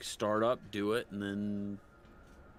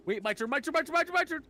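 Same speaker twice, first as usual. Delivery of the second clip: high, louder, rising, pleading; whiny cartoon plea; 5 dB louder, faster than usual. Retelling a cartoon scene, high whiny plea building. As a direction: squeal it higher and higher like a pushy kid. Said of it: "And he goes".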